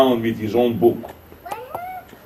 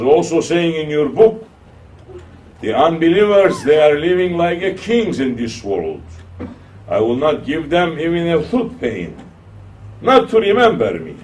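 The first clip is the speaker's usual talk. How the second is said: raised challenging voice; 6 semitones higher, 5 dB louder than usual. Retold or imitated. Challenger questions the sheikh.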